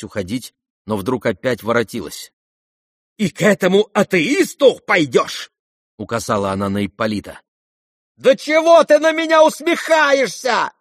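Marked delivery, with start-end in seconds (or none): 3.2-5.5 pointed accusing question; indignant matron. Acted. Mother jabs at Ippolit, accusing question. 8.2-10.7 high, shrill-pitched outburst; unnatural shriek. A narrator's reading. Mother shrieks at mocking Ippolit, unnatural cry. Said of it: "неестественно вскрикнула она".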